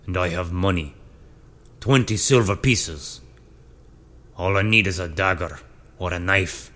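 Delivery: a hint of a defiant brute; gruff prisoner voice. A narrator's reading. Brutish prisoner speaks in story.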